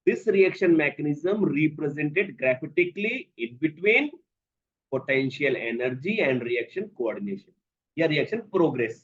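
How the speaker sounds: very slow, word-by-word dictation. Acted. Teacher dictating the definition to students, slowly spelled out.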